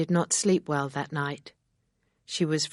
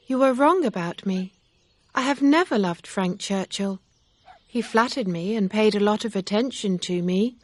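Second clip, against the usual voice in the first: put-on higher, louder young woman's voice; young heroine protesting, higher and louder; Emma's voice; 6 semitones higher, 5 dB louder than usual. A narrator's reading. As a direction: Emma earnestly setting him straight. Narrator voices Emma.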